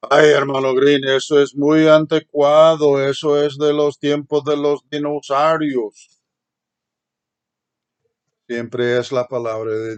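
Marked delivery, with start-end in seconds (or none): 0.1-6.2 a lightly voiced scoffing church member, louder; mock objector. Preacher voicing a member who calls the rules outdated, mock complaint. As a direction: tease the old-fashioned rule as a grumbling listener.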